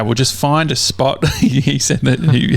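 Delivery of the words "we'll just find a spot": lightly put-on Australian accent. Sheriff's officer advising the caller, mistakenly in an Australian accent. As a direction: let a little exaggerated Australian accent slip in. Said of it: "he didn't have an accent, an Australian accent".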